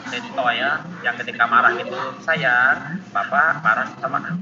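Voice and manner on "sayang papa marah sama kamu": gentle scolding. Retold or imitated. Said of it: "Itu mah bukan marah".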